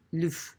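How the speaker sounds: "le v" as one syllable, "luv"; without the accent. Shown as a demonstration. Teacher repeating the accentless form, "le v" as "luv". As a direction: say "le v" with a mute uh vowel. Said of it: "the accent there makes an eh".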